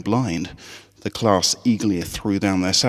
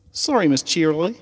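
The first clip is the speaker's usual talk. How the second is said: much higher, Southern twang, eager; high country filly voice; 9 semitones higher than usual. Acted. Apple Bloom rallying the Crusaders on the school trip, high Southern twang.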